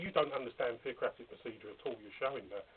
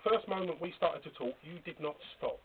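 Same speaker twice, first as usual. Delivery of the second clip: louder and higher, cutting in hard; raised angry voice; 5 semitones higher, 8 dB louder than usual. Real, not acted. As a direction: shout him down in anger. Heated argument, interrupting.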